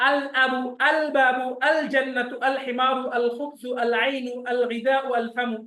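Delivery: each word with a clear আল before it; moon letter examples. Shown as a demonstration. Teacher listing moon-letter words, lam clearly sounded. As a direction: recite with the lam sounded every time. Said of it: "আল হুরুফুল কমারিয়া".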